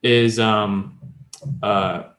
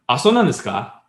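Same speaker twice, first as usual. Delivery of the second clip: mildly surprised Japanese response; interested surprise; 3 semitones higher, 3 dB louder than usual. Shown as a demonstration. Teacher showing how to ask for more, interested surprise. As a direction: show surprise, inviting more detail. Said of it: "you're actually surprised and you're trying to ask more".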